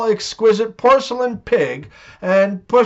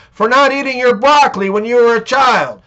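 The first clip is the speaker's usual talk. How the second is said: louder, higher scolding retort; mock angry retort; 5 semitones higher, 4 dB louder, faster than usual. Wife scolds her slapped husband, louder and higher. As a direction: snap it back as the punchline. Mom explains the slap.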